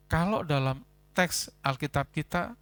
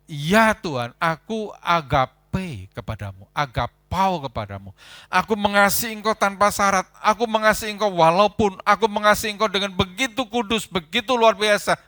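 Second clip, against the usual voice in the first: higher, louder, fervent vow of love; bold declaration; 6 semitones higher, 8 dB louder than usual. Acted. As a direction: proclaim it boldly, full voice. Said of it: "Petrus tidak berani ngomong". (pernyataan kasih yang lantang)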